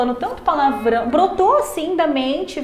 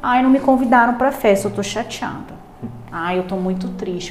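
mock whining; 3 semitones lower than usual. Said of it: "como que essa criança cresce".

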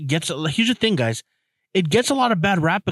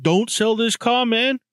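put-on higher-pitched, drawn-out Black American accent; retold quote in a put-on Black American accent; imitated Black American accent; 8 semitones higher, slower than usual. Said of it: "doing a black accent".

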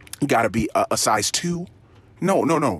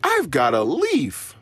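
put-on toddler's words; 4 semitones higher, slower than usual. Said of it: "I think he said something like".

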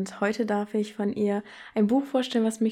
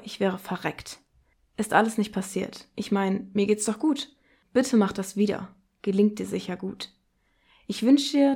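poetry reading. Acted. Host reading a dark poem aloud for the podcast, measured and grave. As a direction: read the poem with weight on each line.

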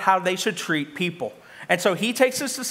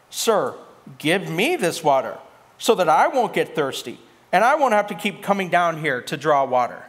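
sarcastic; 2 semitones lower than usual. Acted. Samaritan woman asks Jesus for this water, sarcastic. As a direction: ask with understated sarcasm. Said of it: "You can hear the sarcasm".

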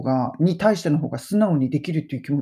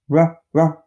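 ra sound growled from the throat; 6 dB louder than usual. Shown as a demonstration. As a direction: growl the r like a dog. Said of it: "らってうなってもいいし".

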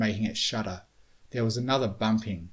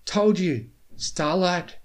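high, loud, halting huffs; winded, broken-up high voice; out of breath; 8 semitones higher, 5 dB louder, slower than usual. A narrator's reading. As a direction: puff the words out in bursts. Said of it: "Spike huffed out of his breath".

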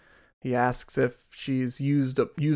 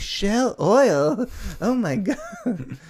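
high excited voice; 8 semitones higher, slower than usual. Retold or imitated. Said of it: "She's like".

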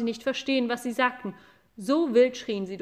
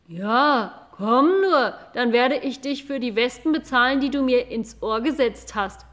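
loud vengeful cow shout; a cow yelling for revenge; angry cow; 6 dB louder than usual. Acted. Cow yells about the wasps, loud angry voice. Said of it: "schrie Golilja".

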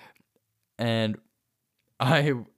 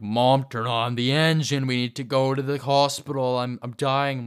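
louder, urgent panicked plea; retold freaking out; 2 semitones higher, 4 dB louder than usual. Urging mom to start the car, retold panicky plea. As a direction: beg to hurry, mock panic. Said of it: "I'm like, freaking".

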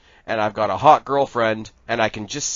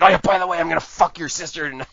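cocky, loud, raised pitch; smug jerk voice; 5 semitones higher, 5 dB louder, faster than usual. Retold or imitated. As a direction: brag it like a smug frat guy. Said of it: "he's like".

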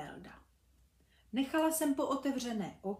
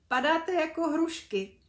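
higher, louder, amused; laughing mum; 6 semitones higher, 6 dB louder than usual. Acted. Mum laughs at the kids falling like pears, higher and louder. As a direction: tease them kindly through a laugh. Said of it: "smála se maminka".

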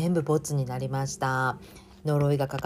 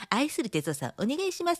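sweet cue voice; 9 semitones higher than usual. Retold or imitated.

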